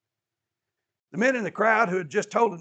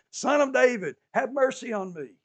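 raised, higher call through a crowd; 6 semitones higher, 5 dB louder than usual. Retold or imitated. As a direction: call out to be heard over people. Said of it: "He called out through the crowd".

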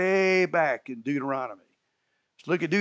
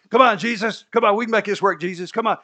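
higher, louder mock pleading; mock-eager begging; pleading Peter; 6 semitones higher, 6 dB louder, faster than usual. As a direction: nag Jesus like an overeager friend.

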